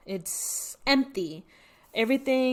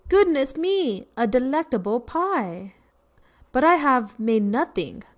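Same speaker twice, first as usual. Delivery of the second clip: excited bear voice; 3 semitones higher than usual. Acted. Bear voiced reading storybook.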